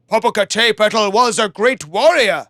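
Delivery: gods' voice. Acted. Gods honoring the warrior from the sky, solemn. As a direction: pronounce it like gods. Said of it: "they said".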